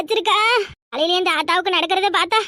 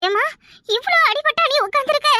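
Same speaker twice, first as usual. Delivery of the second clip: shocked daughter; 8 semitones higher than usual. Acted. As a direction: draw it out in exaggerated shock.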